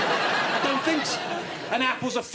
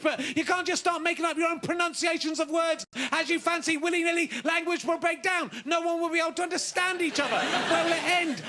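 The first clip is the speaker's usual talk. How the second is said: rising rant; 5 semitones higher than usual. Acted. Escalating rant about pronunciation.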